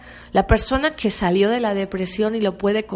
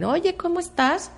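casual greeting; 9 semitones higher than usual. Retold or imitated. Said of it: "es una forma de saludar".

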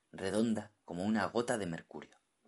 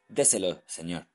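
urging; 6 dB louder than usual. Acted. Mestizo urging the captain.

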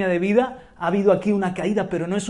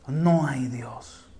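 slow drawn-out; 6 semitones lower, 4 dB quieter, much slower than usual. Acted. Quoting the fool's words.

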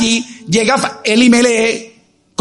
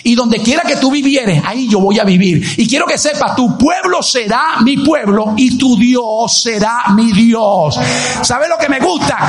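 Ruth's vow as emphatic pulpit oratory; fervent, insistent sermon declamation; impassioned preaching; 2 semitones higher than usual. Acted. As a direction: declare the vow with driving conviction.

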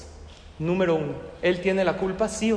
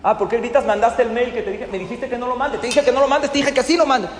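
scolding rant; 4 semitones higher than usual. Acted. Manager scolds secretary.

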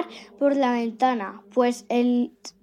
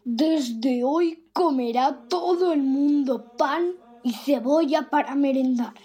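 cavernous voice. Acted. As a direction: speak from the depths of a cave. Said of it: "dijo con voz cavernosa".

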